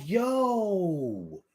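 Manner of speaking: long, falling Philly drawl; dragged-out Philly accent. Shown as a demonstration. Host showing how Philly talks, dragged-out accent. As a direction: stretch it out like Philly. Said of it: "Kinda dragging our words out".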